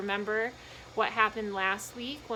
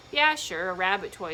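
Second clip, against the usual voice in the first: younger man; 6 dB louder than usual. Acted. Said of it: "said the younger man".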